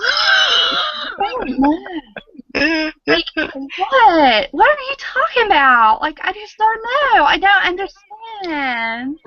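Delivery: mock dumb blonde; dumb blonde act. Shown as a demonstration. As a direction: play the bewildered airhead. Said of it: "act like you have blonde roots".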